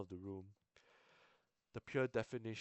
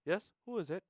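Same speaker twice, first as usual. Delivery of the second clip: higher, louder call through the door; counselor calling out; 9 semitones higher, 6 dB louder than usual. Acted. Counselor answering a knock, high call. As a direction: sing out who's there.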